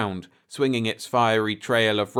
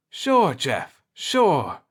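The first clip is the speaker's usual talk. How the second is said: higher, a touch of triumph; note of triumph; 6 semitones higher, 4 dB louder, much slower than usual. A narrator's reading. Pete agreeing with Jeff, triumphant. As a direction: let a little triumph ring. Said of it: "a note of triumph in his voice".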